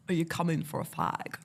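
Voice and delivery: imitating southern English colleagues; southern English accent. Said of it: "they'd be very southern".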